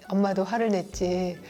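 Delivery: soft admission. Shown as a demonstration. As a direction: admit the fault softly. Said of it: "잘못한 걸 조금만 인정하면 돼요". (조용히 잘못을 인정하는 말투)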